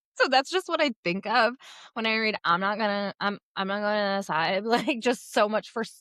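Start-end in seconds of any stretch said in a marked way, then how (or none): 2.5-4.7 put-on drunk slurring. Acting out a book character's line, imitating drunk slurring. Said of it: "her slurring".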